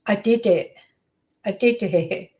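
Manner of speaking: low, level imitation of a confession; calm. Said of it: "calmly, he's saying over and over again".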